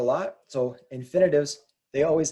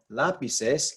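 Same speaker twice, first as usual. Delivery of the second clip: lapises stressed on its first syllable, la-; Spanish lapises, leaning on LA at the front; stress third from last. Shown as a demonstration. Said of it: "this syllable that's stressed right here".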